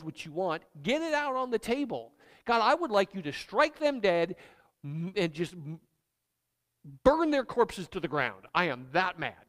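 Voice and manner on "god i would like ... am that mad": louder, heated demand for revenge; angry prayer. Acted. Pastor voices an angry believer praying, heated and louder. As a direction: vent the fury at God, pushing volume.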